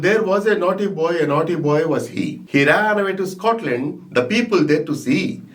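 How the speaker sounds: careful clear recitation; reciting with neat pronunciation. Shown as a demonstration. Teacher showing neat recitation to students, careful. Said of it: "This is reciting".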